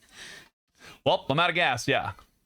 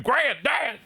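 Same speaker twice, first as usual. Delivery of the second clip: shouted game title; 13 semitones higher than usual. Pretend.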